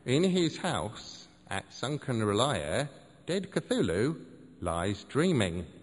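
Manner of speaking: slow, intoned recital; solemn incantation. Acted. Seth reciting the Cthulhu verse, slow and solemn. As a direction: intone it like scripture. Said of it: "interjected Seth".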